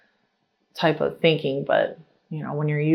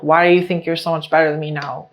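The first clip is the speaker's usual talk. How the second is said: rude retort; faster than usual. Retold or imitated. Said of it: "just so rude".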